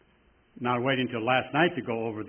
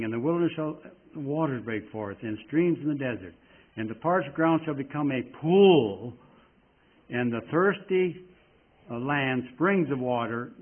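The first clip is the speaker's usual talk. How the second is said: scripture reading. Acted. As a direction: read the verses like a pulpit proclamation. Preacher reads Isaiah aloud.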